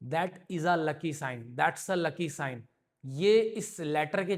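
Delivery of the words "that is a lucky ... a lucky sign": slow reading. Shown as a demonstration. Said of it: "इस line को आप ऐसे भी लिख दो".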